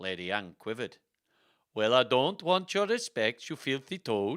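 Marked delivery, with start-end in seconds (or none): 1.7-4.4 clumsy, bad put-on Swedish accent. Reading Lady Anne's line aloud in a bad Swedish accent. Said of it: "I can do a better Swedish accent than this".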